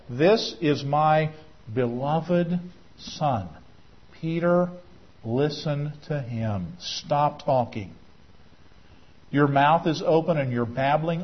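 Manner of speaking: quiet heavenly command to stop talking; voice of God. Acted. God rebuking Peter, retold.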